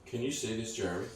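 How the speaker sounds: hushed intense. Retold or imitated. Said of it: "and I'm like".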